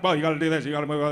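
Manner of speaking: quick, clipped forties film patter, lightly done; forties movie gangster. Retold or imitated. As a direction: hurry it like an old movie doctor-gangster. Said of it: "speaks like they're a gangster".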